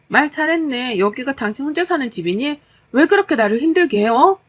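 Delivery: high, heated comeback; angry wife. Acted. Wife turning husband's words back on him, angry. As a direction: seize on his words and build to a loud demand.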